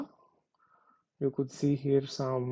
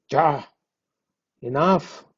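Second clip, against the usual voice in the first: louder, firm ya then enough; annoyed enough; 5 dB louder, slower than usual. Shown as a demonstration. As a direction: scold the cat with a sharp ya. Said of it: "with the different intonation when you say".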